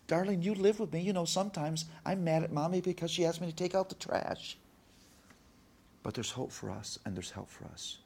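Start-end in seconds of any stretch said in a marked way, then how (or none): 0.1-4.6 high, earnest confiding voice; retold teary-eyed admission; teary-eyed dad. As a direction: confess tenderly to a child, pitch lifted. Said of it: "I'm teary-eyed now, and I'm saying".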